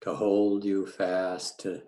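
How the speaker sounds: unhurried grounding meditation with long pauses; calm meditation teacher, phrase by phrase; guided meditation. Real, not acted. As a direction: guide listeners gently into the body, leaving space between phrases.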